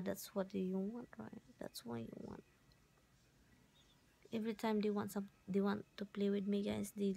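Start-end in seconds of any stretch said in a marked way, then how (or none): 0.0-2.4 soft breathy coo to the dog; whispering. Real, not acted. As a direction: whisper it tenderly. Cooing at dog.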